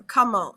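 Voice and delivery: "comment" said French-style, "koh-moh", no final T; silent T. Shown as a demonstration. Teacher models French word for how, silent T. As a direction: drop the T at the end of "comment". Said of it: "we don't pronounce that T".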